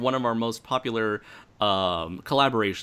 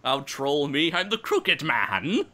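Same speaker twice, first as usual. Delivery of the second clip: high, slow gloating taunt; mock troll taunt; 5 semitones higher than usual. Host voices the Crooked Man taunting people who run. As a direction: tease like a gleeful troll. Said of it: "it almost reminds me".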